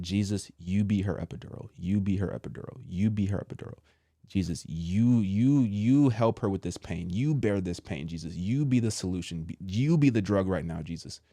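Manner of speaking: subdued, repetitive pleading prayer; retold prayer. Asking Jesus to ease wife's pain, prayerful.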